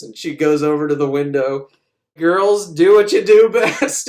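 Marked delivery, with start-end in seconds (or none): 2.2-4.1 louder, higher rallying call; rally the troops; mock battle cry to her breasts; loud command.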